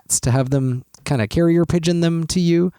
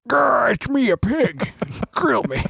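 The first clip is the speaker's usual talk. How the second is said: pig voice; 9 semitones higher, slower than usual. Acted. Pig on the grill pleading.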